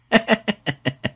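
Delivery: high, scornful laugh falling away; mocking laugh. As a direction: laugh him off with contempt. Villain laughs at the rebuttal. (轻蔑的高声冷笑)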